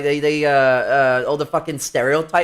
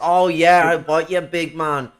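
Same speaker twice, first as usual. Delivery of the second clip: Scouse greeting; 4 semitones higher, 4 dB louder than usual. Shown as a demonstration. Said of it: "that also exists in Liverpool".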